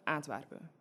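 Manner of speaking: "Antwerpen" flat, with the ending dropped; Antwerp dialect. Shown as a demonstration. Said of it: "instead of Antwerpen".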